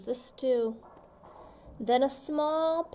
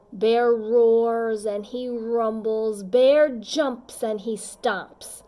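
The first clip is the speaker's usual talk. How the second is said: loud; 8 dB louder than usual. A narrator's reading. Bear roaring in story.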